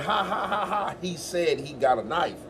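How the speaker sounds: laughing through the words; real laugh. Retold or imitated. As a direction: let the laugh carry the line. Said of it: "I said".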